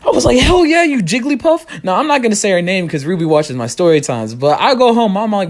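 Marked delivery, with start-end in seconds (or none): 0.4-1.8 high, slow sassy jab; a high, drawn-out sassy retort; mock snap back. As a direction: fire the insult back at the girlfriend. Insulting ex during breakup.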